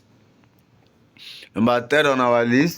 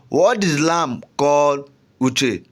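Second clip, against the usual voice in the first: slow question read; much slower than usual. Shown as a demonstration. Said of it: "which is the emphasized word".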